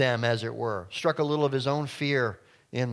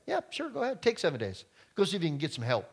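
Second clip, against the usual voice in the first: mocking sneer; 3 semitones higher, faster than usual. Snake mocking the people.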